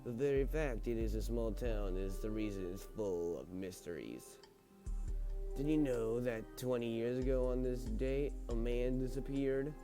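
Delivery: creepy butler. Acted. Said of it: "maybe I should talk in the butler voice now".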